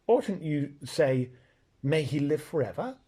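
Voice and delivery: shocked. Acted. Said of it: "in a rather shocked voice".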